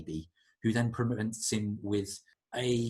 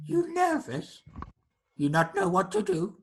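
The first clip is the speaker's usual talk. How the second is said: high creature stage whisper; 8 semitones higher than usual. Acted. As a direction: confide as a strange little creature.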